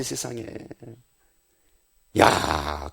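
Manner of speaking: ordinary talk, nothing marked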